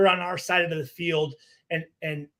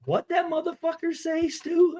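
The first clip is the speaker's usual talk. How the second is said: mock outraged question, pitched way up; indignant disbelief; 10 semitones higher, 3 dB quieter than usual. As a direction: imitate a teammate who can't believe what he heard. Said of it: "Burgess turns around and goes".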